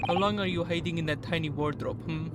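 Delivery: put-on a modest Russian officer accent, accusing. Officer accusing the sleepy suspect, in a light Russian accent. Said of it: "I know my Russian accent isn't that good".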